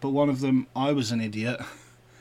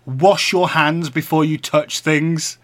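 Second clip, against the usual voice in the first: slow nagging quote; 8 dB louder, slower than usual. Retold or imitated. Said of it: "and said".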